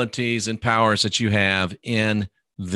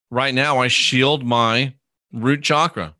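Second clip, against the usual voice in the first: calm affirmation; slower than usual. Shown as a demonstration. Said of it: "and just say".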